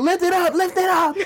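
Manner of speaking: very high-pitched, laughing mock voice.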